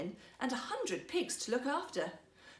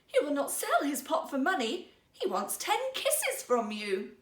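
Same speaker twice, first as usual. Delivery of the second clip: almost in tears; 4 semitones higher, 4 dB louder than usual. Acted. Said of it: "almost in tears".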